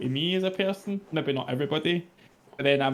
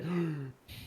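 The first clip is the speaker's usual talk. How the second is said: mock shocked gasp; 3 semitones higher, 8 dB quieter than usual. Shown as a demonstration. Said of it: "I wouldn't be like".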